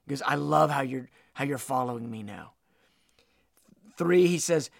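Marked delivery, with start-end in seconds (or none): 0.1-2.5 low, softening words of approval; preacher voicing a loving Lord; tender affection. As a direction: lower the voice into gentle fondness.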